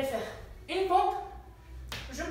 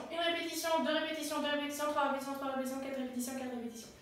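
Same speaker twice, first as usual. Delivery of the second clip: fading counting; 6 dB quieter, much faster than usual. Shown as a demonstration. Counting reps, trailing off.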